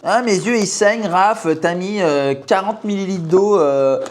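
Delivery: high mock-scolding purist voice; scolding matcha purist. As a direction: imitate a fussy tea snob. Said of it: "je me fais engueuler".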